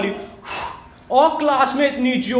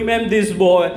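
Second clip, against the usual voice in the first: lightly voiced snitching schoolgirl, with a laugh; tattling girl; 2 semitones lower, much slower than usual. Classmate telling on him to ma'am, sing-song tattle. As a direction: tell on him to the teacher.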